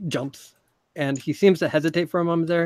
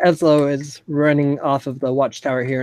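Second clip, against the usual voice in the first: ordinary talk, nothing marked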